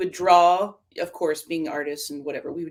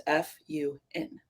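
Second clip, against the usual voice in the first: spelt-out reveal; 7 dB quieter than usual. Real, not acted. Spells out word of the year.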